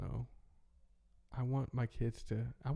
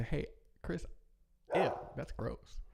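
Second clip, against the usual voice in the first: put-on kid voice; 4 semitones higher, slower than usual. Kid's blunt remark retold.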